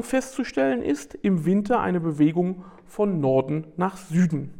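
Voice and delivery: steady read-aloud narration; nature documentary. Acted. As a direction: read it like a wildlife film voiceover. Reads prepared text aloud.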